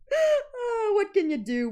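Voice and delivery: high, laughing what can you do; laughing shrug. Real, not acted. Laughing shrug at own sneezes.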